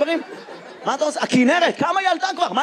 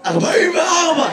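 real hoarse, higher-pitched voice; 5 semitones higher than usual. Real, not acted. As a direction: answer through a sore, hoarse throat. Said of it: "למה אתה נשמע ככה". (קול צרוד)

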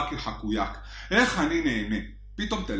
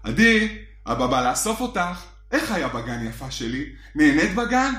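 sweet dad. Retold or imitated. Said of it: "עם חיוך".

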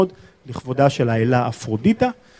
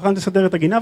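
higher-pitched, lightly voiced nagging; mock nagging, pitched up; imitated nagging wife; 5 semitones higher, faster than usual. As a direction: imitate a wife repeating her request. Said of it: "היא הולכת וחוזרת אחרי חמש דקות".

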